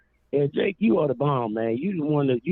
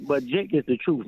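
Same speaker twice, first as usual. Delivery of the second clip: normal talking voice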